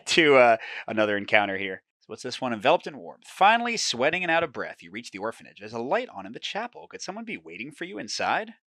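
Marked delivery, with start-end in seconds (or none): 2.5-8.5 steady storyteller read; moody game narration; story narration. A narrator's reading. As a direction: draw the listener into the fog. Narrates reaching the orphanage.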